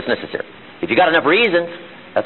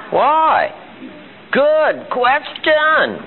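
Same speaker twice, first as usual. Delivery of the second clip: put-on high, very slow childlike why; kid asking why; 11 semitones higher, much slower than usual. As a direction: ask it like a curious kid. Kid asking why, then laughing.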